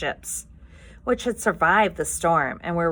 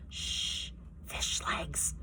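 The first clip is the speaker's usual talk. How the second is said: hushed, breathless shush; whisper; 11 dB quieter, much slower than usual. Acted. Hiccup silencing his friend in the crowd, whispering. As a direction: hiss it so nobody hears. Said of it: "whispered Hiccup".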